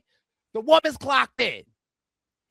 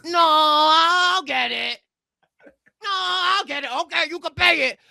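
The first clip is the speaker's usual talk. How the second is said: mock polite insistence; 5 semitones higher, 5 dB louder than usual. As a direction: act out insisting on paying, voice climbing high. Acts polite fight over the bill.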